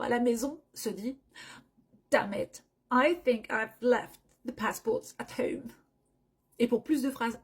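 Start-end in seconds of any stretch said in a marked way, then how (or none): 2.1-5.7 worried traveller. Acted. Full model sentence.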